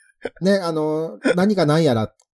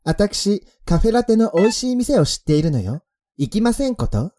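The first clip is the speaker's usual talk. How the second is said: much higher, elegant lady's voice; ojousama speech; 9 semitones higher, 5 dB louder than usual. Acted. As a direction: play a haughty rich girl. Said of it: "そのまんま読み上げたんですけども".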